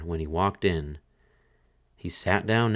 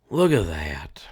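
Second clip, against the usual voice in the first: fiddler groaning; 3 semitones lower than usual. A narrator's reading. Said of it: "groaned the fiddler".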